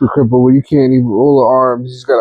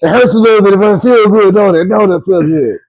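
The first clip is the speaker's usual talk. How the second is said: lightly voiced, higher-pitched pushy practitioner; hammed-up chiropractor; 4 semitones higher than usual. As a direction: coax the patient with mock zeal. Acting out an over-keen chiropractor.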